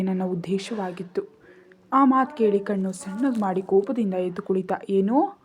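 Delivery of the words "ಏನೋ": a sharp, loud "ಏನೋ?" flung out at once; abrupt angry shout; sudden shout. A narrator's reading. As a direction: bark the question suddenly at her. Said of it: "ಒಮ್ಮೆಲೆ ಕೂಗ್ದ".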